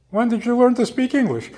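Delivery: high question broken by laughter; laughing question. Retold or imitated. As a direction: ask it through a laugh. Woman laughs at grandmother.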